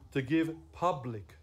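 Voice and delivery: "public" set apart with slow, deliberate weight; slow down and lean on the word "public"; stress on public. Real, not acted. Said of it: "I emphasize the word public".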